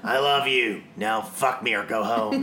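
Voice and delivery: gravelly smoker's voice, lightly done; smoker's rasp. Retold or imitated. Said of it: "That's that smoker's voice you got".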